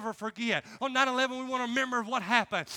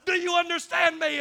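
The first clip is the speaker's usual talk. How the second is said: raised-pitch imitation of an instructor; yelling drill instructor; 5 semitones higher, 4 dB louder than usual. Drill instructor pressing a scared recruit, mock yelling. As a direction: demand it in a mock yell. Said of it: "He'd be yelling and screaming".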